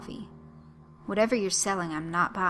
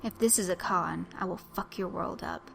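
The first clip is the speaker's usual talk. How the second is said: snarled threat. Acted. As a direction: threaten him through the teeth. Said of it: "snarled Blaine Kellerman".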